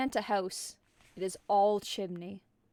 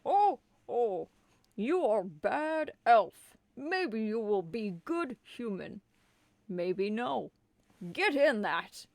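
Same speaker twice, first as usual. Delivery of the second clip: Santa, a bit Dumbledore; 4 dB louder than usual. Acted. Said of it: "let me just start most of his sentence".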